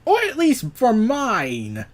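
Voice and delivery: loud, slow, outraged yelp; mock outrage, drawn out and loud; freaking out. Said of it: "Joker freaks out".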